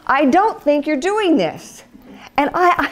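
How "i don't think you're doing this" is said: higher, slow excited pleading; eager young bride. Retold or imitated. Young wife showing her husband the verse, high and eager. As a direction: point it out to him, slowly and much higher. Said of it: "It sounds so romantic to me".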